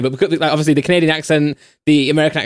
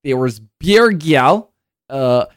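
put-on London slang accent; 2 semitones higher, much slower than usual. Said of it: "he starts going".

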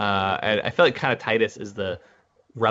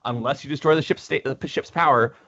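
lightly mocking villain's gloat; mocking taunt; 2 semitones higher than usual. Titus taunting Ezra over the locked ships, mocking. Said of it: "mocks him".

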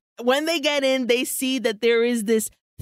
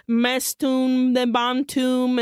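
slow, drawn-out mock Latin spell; reading an incantation; slower than usual. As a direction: imitate someone intoning from a spellbook. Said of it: "she's reading from the book".

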